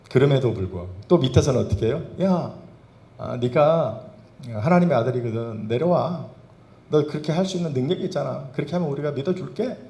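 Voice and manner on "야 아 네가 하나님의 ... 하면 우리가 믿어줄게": a jeering crowd voice, pitched higher; mocking taunt. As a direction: sneer it up at the man on the cross. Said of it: "막 조롱해".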